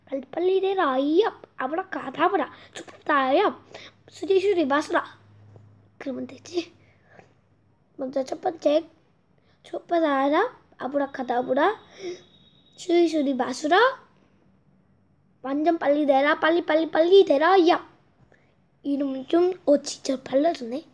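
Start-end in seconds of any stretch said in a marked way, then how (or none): 0.1-5.2 put-on kids party magician. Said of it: "주문을 외우자". 9.6-17.9 building louder spell chant; kids party magician. Pretend. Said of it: "주문을 외우자".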